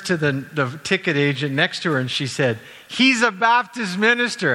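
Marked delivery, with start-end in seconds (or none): 2.9-4.5 much higher and louder, broadcasting it; loud incredulous announcement; retold shout. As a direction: tell the next ticket agent for all to hear. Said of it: "at the top of her voice".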